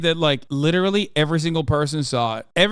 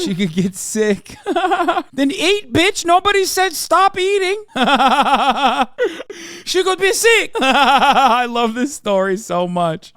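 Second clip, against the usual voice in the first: high, real cackling laughter through the words; laughing; 8 semitones higher, slower than usual. Real, not acted. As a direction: crack up while talking, voice shooting up. Cracking up at the clip.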